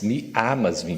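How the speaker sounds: "amas" with an open "a", no nasal; open, un-nasal vowel. Shown as a demonstration. Teacher correcting the audience's Portuguese nasal vowel, clearly. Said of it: "que não nasaliza".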